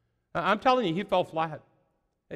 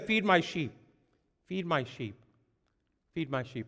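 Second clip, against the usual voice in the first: fading command; 7 dB quieter than usual. Acted. Jesus repeats, fading.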